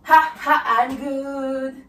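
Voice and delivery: loud ha ha then a laid-back I'm good; sassy I'm good. Shown as a demonstration. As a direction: punch ha ha and let I'm good slide. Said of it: "faut le voir dans le mouvement". (ha ha fort puis I'm good nonchalant)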